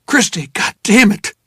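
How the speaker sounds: high, loud, cursing yell; angry desperate shouting; furious shout. Acted. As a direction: bellow at her in panic. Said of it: "I shouted into her face".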